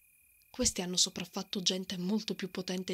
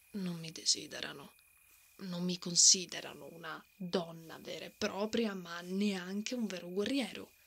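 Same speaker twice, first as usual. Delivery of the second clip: quiet hurt confession; 3 semitones lower, 4 dB quieter than usual. Acted. Confessing loneliness as a warrior woman.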